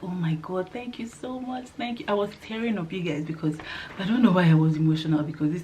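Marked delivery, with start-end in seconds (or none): 0.0-2.1 tearful thanks. Retold or imitated. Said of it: "I was like".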